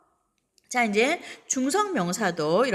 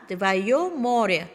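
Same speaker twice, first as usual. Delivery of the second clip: very slow, stress on твоё; slow model reading; much slower than usual. Shown as a demonstration. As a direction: drag out твоё море for learners. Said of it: "너의 바다". (твоё를 천천히 강하게)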